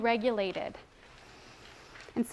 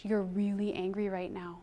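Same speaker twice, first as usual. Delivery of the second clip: calm corrective language; 3 semitones lower, 6 dB quieter than usual. Shown as a demonstration. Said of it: "give her the corrective language".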